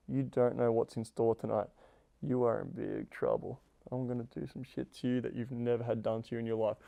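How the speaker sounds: low, playful menace; a hint of a dominant threat; low teasing threat. Shown as a demonstration. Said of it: "push her into the wall ... and say".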